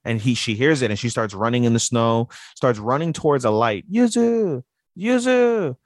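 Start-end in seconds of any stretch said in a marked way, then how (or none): 3.9-5.8 high, drawn-out falsetto call; imitated calling out. Man calling to lost girl in snow, high imitated call. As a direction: call her name from afar, way up high.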